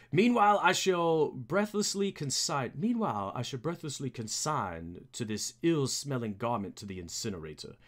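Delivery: lightly voiced formal butler; a hint of disdainful butler, falling in pitch; Alfred. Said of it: "for Alfred".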